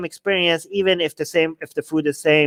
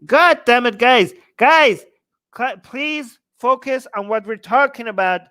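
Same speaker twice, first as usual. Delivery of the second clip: exasperated outburst; 4 semitones higher than usual. Real, not acted. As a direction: snap at the viewers to focus. Chat tags him off-topic.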